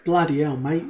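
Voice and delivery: put-on a rough stab at an Australian accent; jokey Aussie twang, half-hearted; mock Australian. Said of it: "that sounded a little bit Australian".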